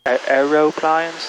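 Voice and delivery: lightly put-on British pronunciation; attempted British accent. Pilot toys with the word aeroplanes, attempted British accent. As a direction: have a half-hearted go at British. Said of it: "That was British".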